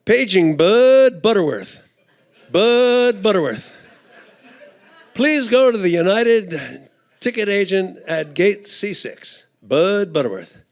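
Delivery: airport page. Retold or imitated. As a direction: call the name like a PA announcer. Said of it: "I hear over the loudspeaker".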